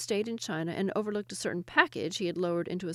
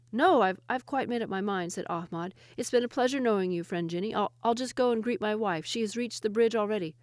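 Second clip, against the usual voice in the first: mock-cheerful Ahmad; 2 semitones higher than usual. Ahmad pretends to leave.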